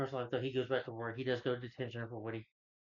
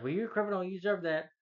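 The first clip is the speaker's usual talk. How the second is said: higher-pitched mock tough-guy retort; high, unconvincing hero's scolding; failed intimidating voice; 7 semitones higher than usual. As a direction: imitate a kid trying to intimidate a criminal. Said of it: "tries to use the intimidating voice".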